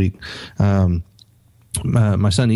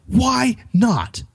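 high, harsh scolding of a son; reenacted angry dad telling off his son; retold angry yell; 11 semitones higher than usual. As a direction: reprimand him, pitched up and forceful. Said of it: "I literally yelled at him".

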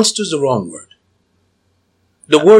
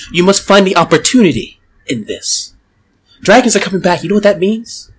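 persuasive cultist. Acted. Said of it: "I'm gonna start using my hypnotic voice".

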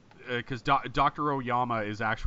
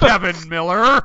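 loud, higher-pitched hammed-up name drop; mock-dramatic; 6 semitones higher, 10 dB louder than usual. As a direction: announce the name as a corny reveal. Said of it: "such a hilariously telegraphed line".

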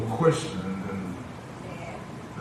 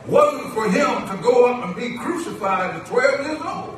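raised, emphatic sermon delivery; preaching; 12 semitones higher, 6 dB louder than usual. Acted. Preacher explains the divine timetable to the church, preaching. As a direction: drive the point to the congregation. Preacher lifts out of quiet aside.

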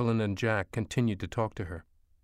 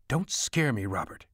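startled scold, pitched up at the start. A narrator's reading. Startled mother to her son at the oven, scolding. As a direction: scold him after a fright. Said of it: "she scolded".

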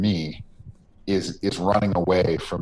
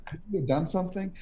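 higher, whispered question to yourself; whispered doubt; 12 semitones higher, 6 dB quieter than usual. Retold or imitated. Viewer quietly questioning Walter's choice, in a high whisper. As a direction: whisper it like a troubled thought.

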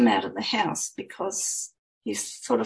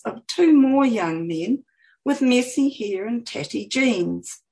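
story narration. A narrator's reading. Reads her novel aloud.

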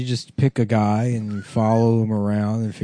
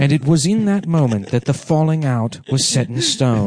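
documentary narrator voice; 3 semitones higher than usual. Acted.

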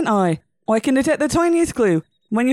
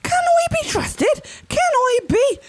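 indignant outrage; slower than usual. Acted. Offended at being doubted.

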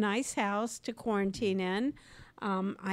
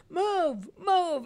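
commanding; 6 semitones higher than usual. Retold or imitated. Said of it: "I just go like".

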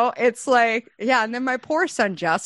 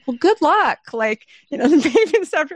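high, louder goodbye breaking into a laugh; awkward laughing goodbye; 9 semitones higher, 4 dB louder than usual. Retold or imitated. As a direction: wish her luck through a laugh.

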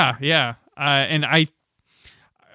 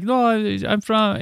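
a light mock Jamaican accent, pitched up; Rastafarian accent; 7 semitones higher, slower than usual. Coworker claims Jamaican roots, light mock Jamaican accent. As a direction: lightly imitate a white guy faking a Jamaican accent. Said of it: "he spoke with a Rastafarian accent".

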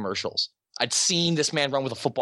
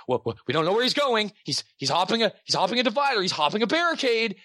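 higher, breathless live-chase commentary; breathless reporter; 6 semitones higher than usual. Retold or imitated. Host mimicking a TV reporter during a chase, breathless and higher. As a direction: rattle it off like a frantic anchor. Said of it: "this strange, breathless".

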